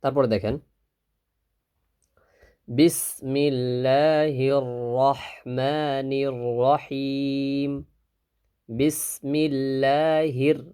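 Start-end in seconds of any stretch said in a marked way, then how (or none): 2.7-7.7 drawn-out chanted Bismillah; slow recitation. Shown as a demonstration. Teacher leading students to repeat slowly. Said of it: "আমার সাথে সাথে উচ্চারণ করবেন". 8.7-10.6 drawn-out chanted Bismillah; slow recitation. Shown as a demonstration. Teacher leading students to repeat slowly. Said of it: "আমার সাথে সাথে উচ্চারণ করবেন".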